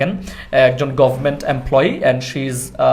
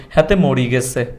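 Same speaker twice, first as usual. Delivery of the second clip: a light Noakhali accent on "হাতে মরি গেছে"; 3 semitones lower, slower than usual. Shown as a demonstration. Host showing his own Noakhali accent. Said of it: "যেহেতু নোয়াখালীর, আমি যদি এভাবে বলি".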